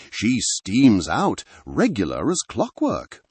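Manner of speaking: "regular as clockwork" in a light rustic Sussex burr, easy and offhand; local Sussex accent. Acted. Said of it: "his voice a low burr, thick with the local accent".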